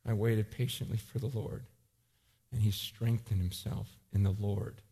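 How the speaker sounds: low, soft and steady; calm, quiet faith. Retold or imitated. David answering his men, calm and quiet. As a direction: settle into quiet trust. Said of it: "And David goes".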